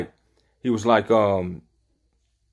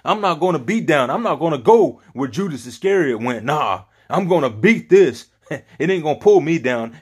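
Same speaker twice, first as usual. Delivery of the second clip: emphatic, raised-pitch determination; defiant resolve; 4 semitones higher than usual. Acted. Preacher voicing Peter refusing Judas's path, defiant resolve. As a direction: preach it as a man refusing to be beaten.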